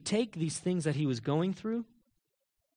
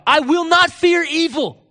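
high, loud, slow proclamation; defiant declaration; 12 semitones higher, 11 dB louder, slower than usual. Acted. David facing evil that chases him, defiant declaration. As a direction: declare it forcefully, drawing it out.

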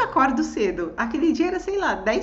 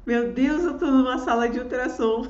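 nervous laugh; 4 dB louder than usual. Retold or imitated. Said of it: "Muito de nervoso".

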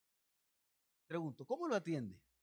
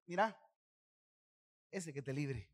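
pained. Retold or imitated. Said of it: "se lo estaba diciendo con dolor".

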